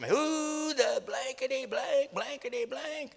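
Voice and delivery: high, slow furious bellow over the PA; captain blasting the crew over the loudspeaker, furious; angry captain yelling. Retold or imitated. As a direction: roar it down the ship's speaker. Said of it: "He came on the P A system".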